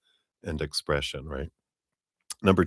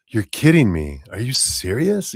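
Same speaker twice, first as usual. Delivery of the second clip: put-on like a little kid; 5 semitones higher, 5 dB louder than usual. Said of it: "like a little kid would".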